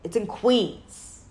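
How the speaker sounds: loud, slow, drawn-out recommendation; imitating brother. Sister mimics brother recommending a restaurant, loud drawn-out voice. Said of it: "It would be like".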